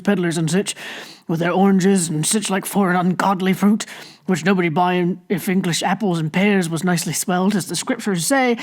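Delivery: a hint of a grumbling countryman airing woes; grumbling old villager. Narrator voices Hempseed grumbling.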